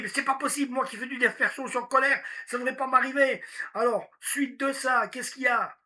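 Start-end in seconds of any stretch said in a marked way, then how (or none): 0.0-3.4 irritated inner voice. Retold or imitated. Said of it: "Vous vous énervez".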